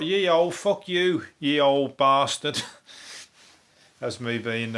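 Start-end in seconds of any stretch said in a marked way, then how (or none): 0.0-2.6 higher, louder mock medieval swearing; mock olde-worlde knight. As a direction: ham up a boozing knight from five hundred years ago. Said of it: "that's me being five hundred years ago".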